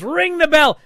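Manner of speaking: high yelled ref call; mock shout. Wrestling recap host voicing the ref, mock shout. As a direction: bark it like the referee. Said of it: "and he goes".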